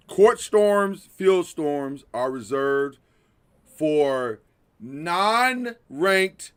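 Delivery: slow, deliberate public announcement; mock PSA. Host gives a PSA on court storming, mock-official announcement. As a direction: lay down the rule word by word, with long pauses. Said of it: "give this P S A".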